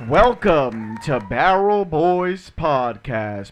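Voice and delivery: slow show-host opener; announcer intro. Acted.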